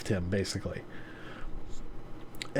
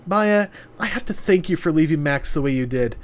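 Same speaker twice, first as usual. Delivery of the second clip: smug woman voice; 3 semitones higher, faster than usual. Acted. Voices Yuna.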